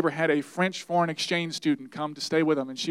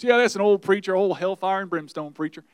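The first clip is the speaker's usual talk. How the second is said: mocking jibe; 3 semitones higher, 7 dB louder than usual. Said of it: "some people make jokes about preachers".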